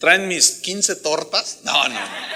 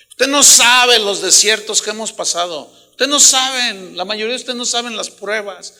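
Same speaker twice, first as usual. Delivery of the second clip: forceful rebuke; 3 semitones higher, 6 dB louder than usual. Real, not acted. Pastor rebukes murmurers.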